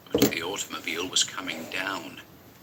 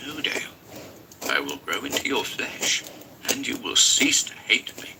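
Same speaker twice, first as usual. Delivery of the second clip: sly demon voice; 3 semitones higher than usual. Acted. Familiar speaking.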